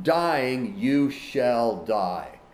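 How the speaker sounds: "dying you shall die" drawn out very slowly; slow, solemn stress on "dying", falling to "die"; very emphatic. Shown as a demonstration. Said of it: "So it's very emphatic".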